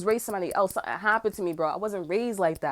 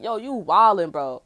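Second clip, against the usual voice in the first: calling out; 6 dB louder, slower than usual. Retold or imitated. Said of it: "I'm like".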